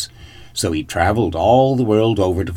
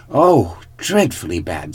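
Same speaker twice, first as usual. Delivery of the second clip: cartoon princess. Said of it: "said the princess".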